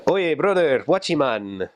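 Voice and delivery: high swooping hail, then settling; imitated Peruvian slang. Giving examples of borrowed English, playful high call. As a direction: call it out like a local. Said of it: "things like that".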